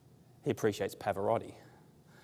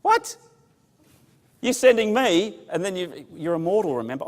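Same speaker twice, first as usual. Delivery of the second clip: a much higher, louder squawk of disbelief; the angel can't believe he's sent alone; shocked angel; 6 semitones higher, 6 dB louder than usual. Acted.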